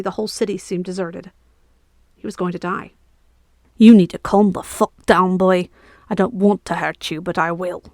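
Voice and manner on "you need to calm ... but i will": a hint of a menacing Lachlan knight, loud at first; lightly voiced threatening knight; a stern knight pinning a thief, mildly sinister. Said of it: "a Lachlan accent and a sinister tone".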